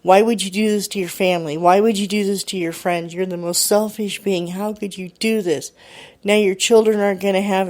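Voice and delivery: mock yelling with mild heat; indignant retold tirade, piling up questions; retold screaming. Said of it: "He kept screaming at me".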